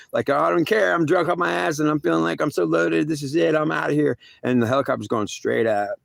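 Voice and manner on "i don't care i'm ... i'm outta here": put-on reckless drunk. Voicing his drunk self.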